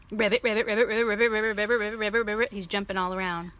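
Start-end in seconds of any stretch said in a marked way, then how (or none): 0.1-2.5 frog croaks. Pretend. Piggy pretending to be frog.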